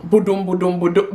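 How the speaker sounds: imitated thudding heartbeat; mock heart-pound noise. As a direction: thump out a racing heartbeat in syllables. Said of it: "now my heart is now".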